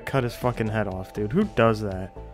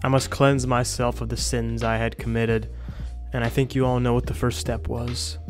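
solemn narration. Acted. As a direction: narrate it like a grave confession. Mock solemn confession narration.

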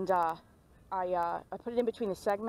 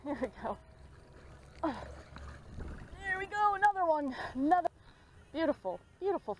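excited coaxing; 8 semitones higher than usual. Real, not acted. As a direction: stretch it out high as the fish comes in. Landing a fish on camera.

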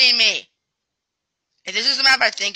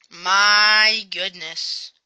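exasperated drawl; 3 dB louder, much slower than usual. Real, not acted. Annoyed at bugged map.

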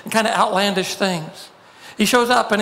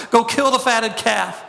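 half-hearted retold shout of joy; mild mock shout; 3 semitones higher than usual. Overjoyed father calling to servants, mild mock shout. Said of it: "screams at the top of his lungs".

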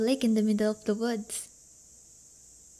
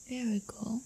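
much softer whispered praise; 8 dB quieter than usual. Real, not acted. Praising her shy date for saying it back, soft whisper. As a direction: whisper your approval close in.

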